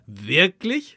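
imitated "Wirklich?" with a rising questioning end; drawn-out "Wirklich?", mimicking someone's pet catchphrase; charming intonation. Host imitates guest's favourite word, charming questioning lilt. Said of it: "du sagst es so wunderbar".

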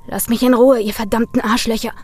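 enraged snarl at his friends; hissing angrily. Acted. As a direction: spit the words at them. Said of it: "fauchte Brian".

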